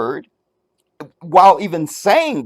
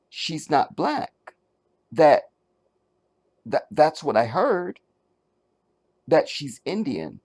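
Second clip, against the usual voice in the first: softer, slow, hesitant hearsay; shy quoted rumour; 3 dB quieter than usual. Retold or imitated. Host re-voicing the singer's remark: soft and shy. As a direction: offer it timidly, half asking.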